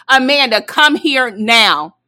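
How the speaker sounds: slow, drawn-out stern summons; mock-stern final warning call. Mama summoning Amanda for the last time, slow and stern. Mama calling, government name.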